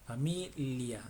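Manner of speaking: Familia split as fa-mi, LIA; touch the tongue tip forward for the l in Familia. Shown as a demonstration. Teacher breaks down the Spanish word, careful pronunciation. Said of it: "la punta de tu lengua está hacia adelante".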